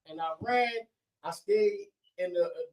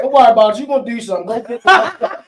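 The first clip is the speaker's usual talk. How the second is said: grandma; 5 semitones higher, 12 dB louder than usual. Retold or imitated. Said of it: "my grandmother".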